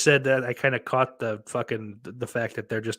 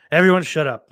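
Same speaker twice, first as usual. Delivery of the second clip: mock shout at chat; 4 semitones higher, 9 dB louder, faster than usual. Real, not acted. Telling chat to shut up.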